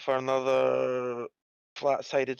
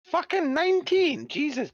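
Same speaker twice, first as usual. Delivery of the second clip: excited shout. Real, not acted. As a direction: yell it in triumph. Cheering a high dice roll.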